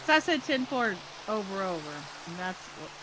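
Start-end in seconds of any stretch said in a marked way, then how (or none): 0.4-1.9 radio lingo, clipped and brisk; mock walkie-talkie call; walkie-talkie speak. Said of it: "Walkie-talkie speak".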